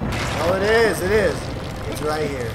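sudden loud, high delight; thrilled discovery; excited. Real, not acted. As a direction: shout out the find with glee. Spots the target excitedly.

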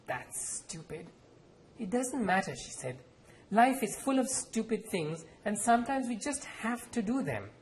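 measured author reading with voiced characters; story reading. A narrator's reading. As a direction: read the scene aloud, letting the characters speak. Author reads novel aloud.

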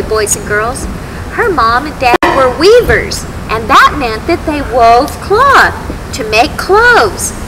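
put-on gentle storyteller for kids; reading to children. A narrator's reading. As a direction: tell it like a Sunday school story. Telling Bible story to children.

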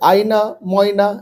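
আয়না, ময়না each said in one go; quick reading. Shown as a demonstration. Teacher showing pupils how to speed up, read quickly. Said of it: "তাহলে এবার তাড়াতাড়ি পড়বে".

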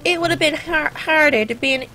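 put-on playful American accent with a sassy "sister". Gamer riffing on teenage hardship, in put-on American accent. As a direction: lean into an American accent on "God forbid". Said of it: "I keep going into an American accent".

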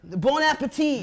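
loud, high fake-European shout; yelled mock foreign accent. Host trying out Italian, yelled mock European accent. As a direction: call it out like a hammy foreign chef. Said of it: "just say a thing out loud".

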